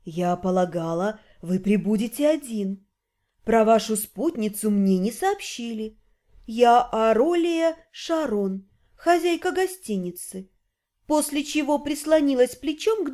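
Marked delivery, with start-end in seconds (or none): 0.0-10.5 seductive hostess voice; breathy hollywood starlet. Acted.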